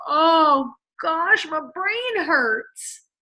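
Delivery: slow, pained mock complaint; mock groan. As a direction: play a mildly overwhelmed reader. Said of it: "people just go".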